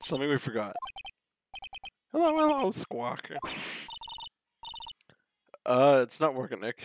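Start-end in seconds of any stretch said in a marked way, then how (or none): 2.1-3.3 "Hello, hello," much higher, like a parrot. Pretend. Streamer voicing the parrot witness, high parrot voice. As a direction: squeak "Hello, hello," like a pet parrot.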